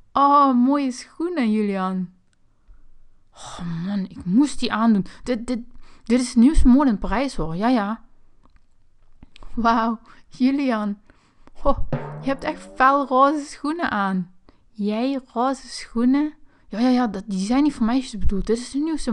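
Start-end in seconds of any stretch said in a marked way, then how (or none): 0.1-2.1 mock admiration. Sister teases his pink shoes. 9.5-16.3 slow, drawn-out mock wonder; teasing awe. Sister teases pink shoes.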